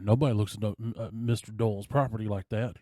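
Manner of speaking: retold mobster threat. Mobster in a suit warns the stranger, in a mock tough voice. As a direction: push the words like a mild mock threat.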